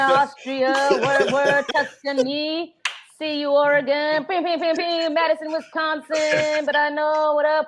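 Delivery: hyped-up radio DJ reading out the cities; radio DJ shout-outs. Acted. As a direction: play the late-night DJ giving shout-outs. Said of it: "it sounds just like a D J when the speaker is reading".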